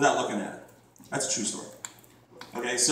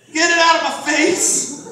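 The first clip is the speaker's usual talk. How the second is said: mock disgust; 11 semitones higher, 4 dB louder, slower than usual. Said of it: "And I'm like".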